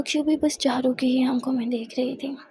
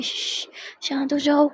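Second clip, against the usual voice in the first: soothing; 3 semitones higher, slower than usual. Acted. Comforting crying friend, slow soothing hush. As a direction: gently shush the crying girl. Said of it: "बालों को सहलाती है".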